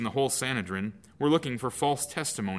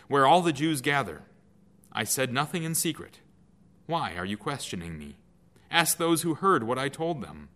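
firm defense; 4 semitones higher than usual. Acted. Jesus answers high priest.

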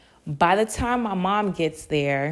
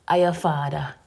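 calm, sure; 3 semitones lower than usual. Retold or imitated. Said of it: "very calm, sure voice".

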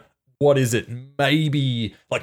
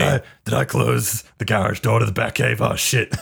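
mock Batman inner voice. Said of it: "his internal monologue goes into the gruff Batman voice".

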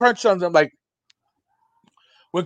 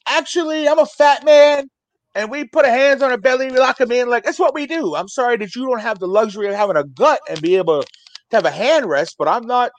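raised, lightly mocking explanation; mock indignant explaining; 5 semitones higher than usual. Telling the bouncer why fat men rest hands on belly, mock indignant. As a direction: lecture him like it's obvious.

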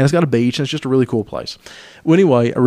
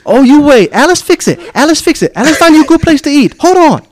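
mock broken English; 7 dB louder than usual. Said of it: "And she said".

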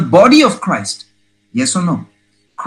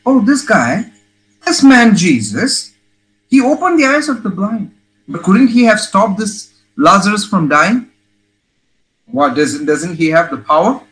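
higher-pitched mock grumbling of doubters; acted-out complaining, pitched up at first; questioning complaint; 5 semitones higher than usual. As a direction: imitate a crowd questioning him in complaint. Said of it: "They were complaining".

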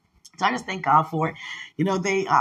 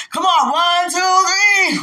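loud, high playful count-in; 12 semitones higher, 7 dB louder, slower than usual. Pretend. Coaxing someone to say the name with her, playful shouted count. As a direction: shout the count like a cheerleader, in play.

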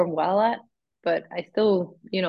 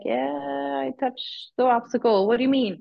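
higher-pitched, puzzled comeback; retold bafflement; 6 semitones higher than usual. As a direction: act out a baffled reply. Retold baffled reply to marshal.

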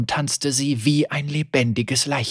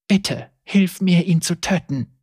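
determined pleading; 5 semitones higher than usual. Acted. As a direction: beg with resolve. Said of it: "flehte sie entschlossen".

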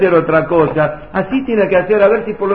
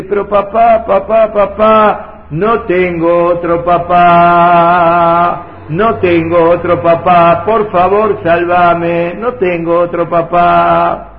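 loud, slow, almost sung begging; desperate child's plea; 4 dB louder, slower than usual. Acted. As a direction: wail it out, drawn and pleading. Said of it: "cuando vos gritaste y dijiste".

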